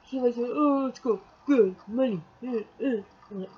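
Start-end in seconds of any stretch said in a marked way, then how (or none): 0.5-3.0 mock eager hurrying; impatient urging imitation. Imitating him hurrying her to the cash, impatient. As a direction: imitate someone nagging to get going.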